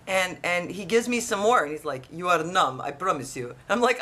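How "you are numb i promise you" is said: low, assured retold reassurance; firm and dismissive, sinking lower; dentist's calm insistence. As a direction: imitate a dentist insisting, voice dropping. Dentist insisting, retold then countered.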